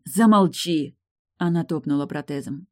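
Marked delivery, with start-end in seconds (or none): 0.0-1.0 sharp cut-off. Acted. Tilda cuts Morton off.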